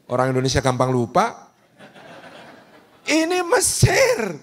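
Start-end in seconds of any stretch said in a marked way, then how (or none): 3.1-4.4 mock Egyptian gossip. Mock Egyptian crowd, laughing.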